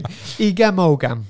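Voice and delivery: Welsh phrase said slowly in a Cockney Australian twang; slow, careful "Egam ogam" with an Australian twang. Shown as a demonstration. Host quizzing a guest on Welsh words, Cockney Australian twang. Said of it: "the Cockney Australian twang isn't helping".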